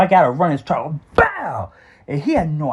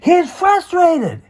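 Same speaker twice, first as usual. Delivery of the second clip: high, slow pleading mother's voice; mother shielding her son from the stepfather, pleading high; 13 semitones higher, 4 dB louder, much slower than usual. Retold or imitated. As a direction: beg him to back off, stretching each word. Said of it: "she's like".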